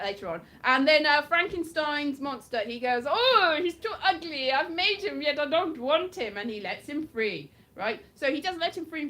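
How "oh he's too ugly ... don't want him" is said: higher-pitched, hammed-up lament; mock dismay. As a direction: play a creator disowning his creation, lightly overacted. Acts out creator rejecting the monster.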